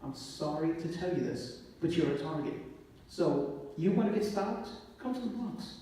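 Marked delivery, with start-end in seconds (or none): 3.1-5.7 rising, heated, pitch lifting high; emotional. Real, not acted. Officer telling the panel about the Bronx, emotional. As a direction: let the emotion push the pitch up. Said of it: "I'm sorry I get emotional".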